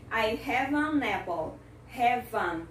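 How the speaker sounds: teacher's demo of AN flowing into APPLE; linked pronunciation. Shown as a demonstration. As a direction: HAVE AN joined as 'ha-vun'. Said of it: "Deu pra juntar a pronúncia?".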